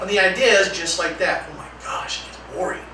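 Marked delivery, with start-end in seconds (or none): 1.5-2.8 soft, deflated groan of boredom; bored student. Acted. Student worn down by the broken record, bored sigh. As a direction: sound defeated by the repetition.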